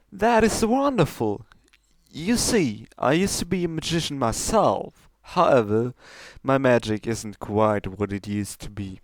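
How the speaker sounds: put-on courteous old magician, eager; lightly voiced stallion. Stallion offering his tricks to Trixie, lightly voiced.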